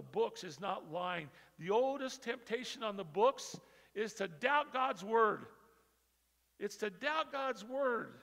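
loud, driving sermon cry; preaching at full force. Real, not acted. Preacher crying out to the church about doubting God. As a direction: hammer the point home to the church.

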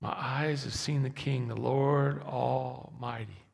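normal talking voice

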